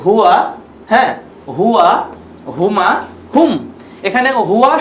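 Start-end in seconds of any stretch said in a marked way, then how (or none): 0.0-0.5 "হুয়া" said alone as a model; pronunciation drill. Shown as a demonstration. Teacher leads friends in pronunciation, "হুয়া" said distinctly. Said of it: "উচ্চারণ করি বন্ধুরা". 1.6-3.5 "হুয়া, হুমা, হুম" word by word, pause after each; pronunciation drill. Shown as a demonstration. Teacher asks friends to pronounce along, measured drill with gaps. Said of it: "উচ্চারণ করি বন্ধুরা".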